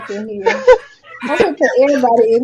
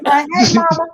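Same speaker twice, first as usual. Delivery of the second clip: put-on child calling mama; 5 semitones higher, slower than usual. Voicing her child in chat.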